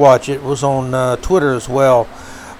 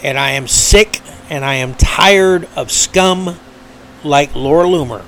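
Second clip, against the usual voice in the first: emotional. Real, not acted. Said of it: "I get very emotional".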